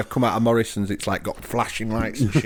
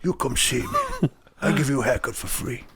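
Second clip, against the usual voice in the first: attempted Hungarian accent; 5 dB quieter than usual. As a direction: lightly imitate a barber with a Hungarian accent. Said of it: "sound a bit maybe Hungarian or something".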